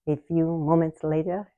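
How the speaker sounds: light mock French narrator accent, barely voiced; hint of a French cartoon narrator's accent; SpongeBob narrator accent. Imitating the SpongeBob narrator's French accent, half-hearted. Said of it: "that's a terrible accent".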